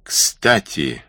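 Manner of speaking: calling a name across the camp. Acted. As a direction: call him over from a distance. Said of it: "крикнул он".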